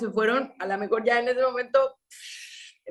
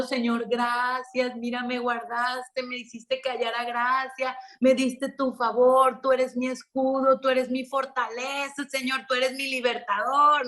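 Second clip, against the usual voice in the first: imitating tearful prayer; 3 semitones higher than usual. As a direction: voice her weeping gratitude, dragging the words out. (mujer que agradece a Dios llorando, más aguda y lenta)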